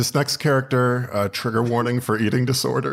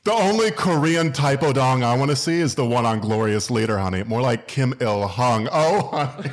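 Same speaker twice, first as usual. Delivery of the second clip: A drag performer. Acted. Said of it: "it's called Foreign Policy edition".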